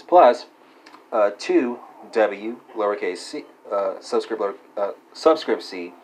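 dictating. Acted. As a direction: spell out each symbol carefully. Reads formula out symbol by symbol.

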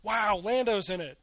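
re-enacting a thrilled "wow" reaction; mock-excited outburst, a bit punched up; excited moviegoer. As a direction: recall your delight at a surprise casting. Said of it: "I was so excited".

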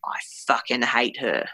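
lightly imitated male spirit, low and half-whispered; malicious male voice. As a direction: drop into a low, whispery voice of hate. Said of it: "you hear this male voice saying".

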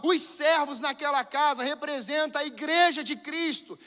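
loud, rising preacher's climax; preaching at full force. Real, not acted. Preacher stirring the church about welcoming the wounded, full force. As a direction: build it to a roar for the congregation.

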